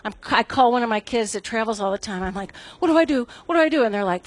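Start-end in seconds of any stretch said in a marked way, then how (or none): 2.8-3.8 mild mock panic, higher-pitched; retold panic. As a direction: act out a flustered plea for help. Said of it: "I'm freaking out".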